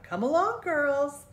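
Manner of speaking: high, loud call across the yard; calling back. A narrator's reading. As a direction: call out to the girls from afar. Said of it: "He called back".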